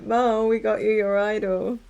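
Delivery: loud, chirpy mock presentation; proud announcement. Pretend telling Mo about the idol, loud and chirpy. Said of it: "be like".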